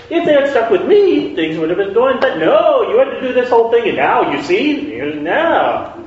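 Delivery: high and loud, mock-furious ranting; hammed-up indignant complaint that winds down; angry Samuel. Samuel berating God, his anger fading out. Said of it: "He might be angry because it's like".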